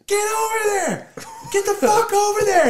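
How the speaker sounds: high, loud urgent command; teen ordering Danny to steer over, high and loud; frantic order. Retold or imitated. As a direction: yell the order. Ordering the driver to go.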